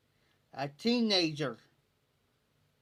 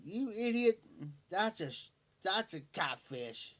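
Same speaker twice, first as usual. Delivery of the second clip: exasperated retort; 3 semitones higher than usual. Retold or imitated. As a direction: blurt it as a retold inner outburst. Exasperated inner retort to Leroy.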